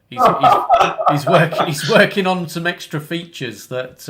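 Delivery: high, loud start through laughter, settling; real giggles breaking into the words; laughing. Real, not acted. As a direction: laugh off a near slip and carry on. Laughs after nearly leaking a secret.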